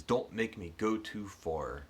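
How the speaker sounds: slow, mildly menacing, through the teeth; a touch of held-back anger, words squeezed out; through clenched teeth. Retold or imitated. Hero warns the leering stranger through clenched teeth. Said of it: "he clenches his teeth".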